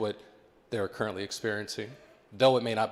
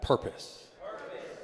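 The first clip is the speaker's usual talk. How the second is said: modelling the word; 6 dB quieter, slower than usual. Shown as a demonstration. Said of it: "Can you all sh-, say that?".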